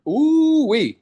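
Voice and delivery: high, loud delighted exclamation; excited whoop. Real, not acted. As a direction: whoop at the opportunity. Coach excited by opportunity.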